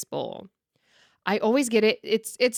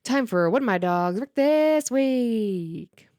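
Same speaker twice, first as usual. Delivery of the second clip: slow, drawn-out announcer intro; show segment announcement; 3 semitones higher, much slower than usual. Shown as a demonstration. Host to viewers, slow announcer voice. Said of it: "segment title announced".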